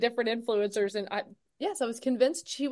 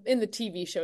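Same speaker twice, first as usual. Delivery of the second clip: ordinary talk, nothing marked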